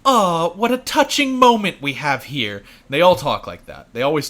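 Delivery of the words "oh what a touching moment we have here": lightly voiced condescending villain, a touch slow; a hint of a smug British villain drawing it out; Salazar voice. Podcaster imitating Salazar taunting Leon, mild condescending voice. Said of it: "I'm gonna do my best to do his voice".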